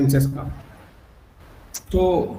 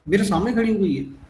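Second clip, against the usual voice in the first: indignant husband; 4 semitones higher than usual. Retold or imitated. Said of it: "ये tone बोला कि".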